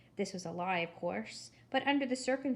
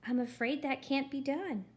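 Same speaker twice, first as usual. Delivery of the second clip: sugary, slightly higher refusal; too sweet voice; 4 semitones higher than usual. Acted. Gladys refusing Eugenia's return, too sweet. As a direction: decline politely but far too sweetly. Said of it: "in her too sweet voice".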